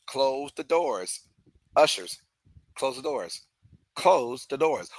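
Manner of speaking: lightly voiced preacher calling out slow; a hint of a gospel singer, slowed down; a gospel singer's quote. Fan quoting a gospel singer to the pitcher, mock preacher call. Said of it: "As a gospel singer would say".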